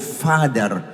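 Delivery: put-on child's soul crying for help; pleading child's cry. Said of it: "sumisigaw ang soul and spirit ng anak mong".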